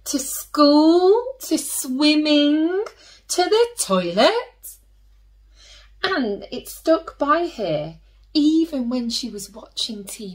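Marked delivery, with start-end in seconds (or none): 0.0-4.3 building list. A narrator's reading. Escalating list of places.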